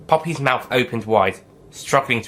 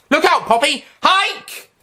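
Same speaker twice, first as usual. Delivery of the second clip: higher, louder alarmed call; warning shout; 5 dB louder, slower than usual. Acted. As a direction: yell a warning to your friend. Doctor warns Poppy.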